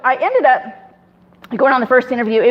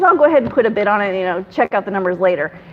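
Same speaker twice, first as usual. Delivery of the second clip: quick, offhand, falling lower; feigned nonchalance; 4 semitones lower, faster than usual. Retold or imitated. Investor hiding interest while bidding, nonchalant. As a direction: toss it off as no big deal. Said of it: "he's acting all nonchalant".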